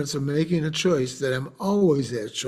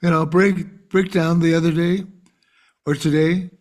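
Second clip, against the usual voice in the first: lightly mock a nurse all sunshine; bubbly nurse; 3 semitones higher than usual. Nurse greeting the widowed father, mock bubbly. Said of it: "really bubbly".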